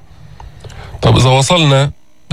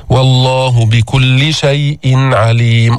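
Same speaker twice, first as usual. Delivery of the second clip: slow, measured tajweed chanting; Quran recitation; slower than usual. Shown as a demonstration. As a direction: recite carefully as a model for the class. Recites verse.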